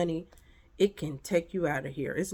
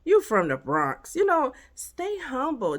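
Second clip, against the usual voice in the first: sassy dismissal; 6 dB louder than usual. Retold or imitated. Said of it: "I'll be like".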